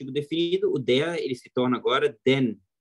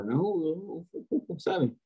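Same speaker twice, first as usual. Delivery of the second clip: posh prince; 4 semitones higher, 6 dB quieter, slower than usual. Retold or imitated. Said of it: "filho de rei, sabe, que fala".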